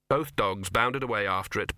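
usual speaking voice

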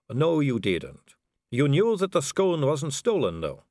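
high, slow, silky vampire voice; a vampire noblewoman purring at a dangling man; suave vampire lady. Acted. Purring vampire lady taunting Vimes, slow and high.

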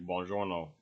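mock Brad Pitt's fake Italian "Buongiorno"; bad Italian accent. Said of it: "the most bullshit Italian accent in the world".

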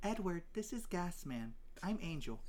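a hint of a small girl; lightly voiced little girl. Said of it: "this is a little girl's voice".

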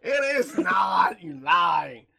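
loud mock denial, rising at the end; playful shouting. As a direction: shout it down, half joking. Mock argument with co-host.

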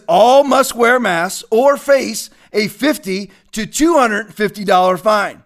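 slow, emphatic read of a decree; mock official proclamation. Host quotes the county mask mandate to his viewers, mock official proclamation. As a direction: proclaim it slowly, like a stern order.

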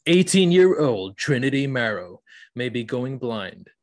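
dramatic movie trailer narration. Shown as a demonstration. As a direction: read it like an epic trailer. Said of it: "Just use your trailer voice for sure".

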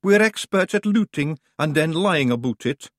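a cheeky little Feegle drawling. A narrator's reading. Feegle voice in the story.

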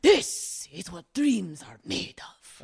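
slow, loud, husky mock Hispanic accent. Player finally delivering the film quote, slow Hispanic accent. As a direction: draw out each word in a Hispanic accent. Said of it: "your next accent is Hispanic".

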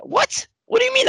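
high squeaky disbelief; mock surprise. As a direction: shoot up in pretend confusion. Mock confusion in skit.

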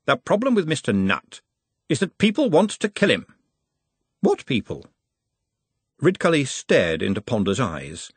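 put-on a hearty old wizard in charge; Ridcully's voice.

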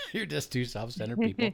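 laughing through the words; amused, a laugh bubbling into the line. Real, not acted. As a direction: break into a laugh mid-sentence and carry on. Teller breaks into laughter retelling it.

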